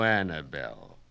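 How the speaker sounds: put-on high, loud Yiddish-accented orator; Yiddish-accented Kaplan, holding forth grandly; Yiddish-accented immigrant student. Student lecturing his night class in a Yiddish accent. Kaplan scorns Columbus's boats.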